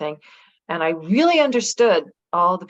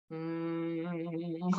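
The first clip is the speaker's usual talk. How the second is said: imitated hum; 11 dB quieter than usual. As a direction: hum quietly like a battery. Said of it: "like, humming".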